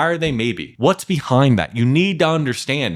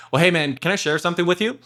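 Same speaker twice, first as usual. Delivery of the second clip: friendly frame; 3 semitones higher, faster than usual. Shown as a demonstration. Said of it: "a real easy frame".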